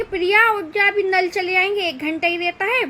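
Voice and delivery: papa ki tarah thoda zor se pukaarna; father's wake-up call. Retold or imitated. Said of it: "same वैसे ही, अ, बोलते कि". (पापा की नकल में हल्की ऊँची पुकार)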